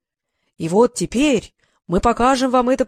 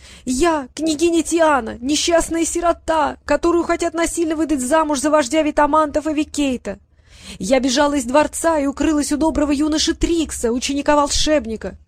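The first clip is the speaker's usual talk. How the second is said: put-on falsetto girl voice; 6 semitones higher than usual. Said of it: "срывающимся фальцетом".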